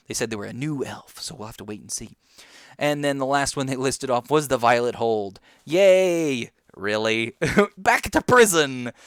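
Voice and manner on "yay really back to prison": laughing mock cheer. Real, not acted.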